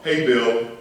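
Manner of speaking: light mock of an overfamiliar child; cheeky kid greeting. Preacher mimicking a disrespectful child, casual. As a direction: toss off the name too casually. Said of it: "walk up to me talking about".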